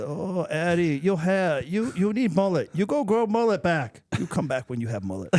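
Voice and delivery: put-on Asian accent. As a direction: riff the coach character with a thick Asian accent. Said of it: "I'd have to work out some bit".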